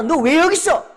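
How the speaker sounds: loud, high demand; mock scolding. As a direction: shout it as an accusing question. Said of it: "그 뜻이 아니고요".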